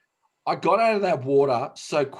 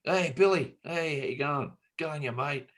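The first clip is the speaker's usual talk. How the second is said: friendly passers-by; 4 semitones higher than usual. Retold or imitated. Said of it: "people would just be".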